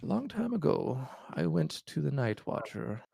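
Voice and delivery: lightly voiced frail old man; weary old king confessing. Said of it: "he goes through his explanation".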